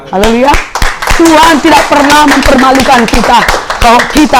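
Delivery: fervent preaching. Acted. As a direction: proclaim it to the whole church. Preaching at full force.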